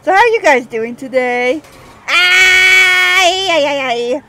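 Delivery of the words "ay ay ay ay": loud panicked "ay ay ay"; startled yelp. Real, not acted. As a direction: yelp in sudden alarm. Panicked cry at a near crash.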